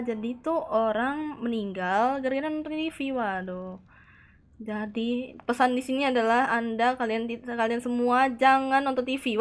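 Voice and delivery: ordinary talk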